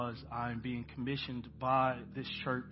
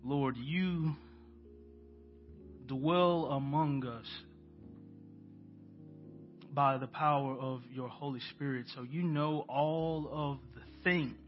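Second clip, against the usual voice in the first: prayer. Acted. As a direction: pray aloud to the congregation, unhurried. Leads the church in prayer.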